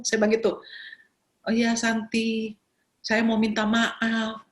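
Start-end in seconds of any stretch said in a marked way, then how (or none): 1.4-4.4 slow, drawn-out imitated apology; mock apologetic caller. Caller asking Santi for forgiveness, slow imitated apology. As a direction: stretch the words out as the caller.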